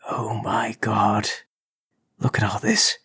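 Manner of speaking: breathy awestruck whisper, slow; hushed, stunned by what he sees; awed whisper. Acted. Intruder whispering over the hidden workbench, awed.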